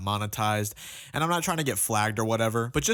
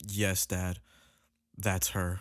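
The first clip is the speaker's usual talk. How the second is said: hesitant; 5 semitones lower, 4 dB quieter, much slower than usual. Retold or imitated. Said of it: "And I say hesitantly".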